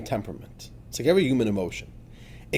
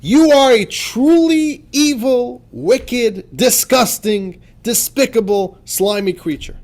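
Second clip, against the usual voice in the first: high, loud, slow furious scolding, each insult hammered; furious berating; 7 semitones higher, 6 dB louder, slower than usual. Shown as a demonstration. Rabbi berating the animal soul, furious and loud. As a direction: hurl each insult like a verdict. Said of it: "this is what you say to it".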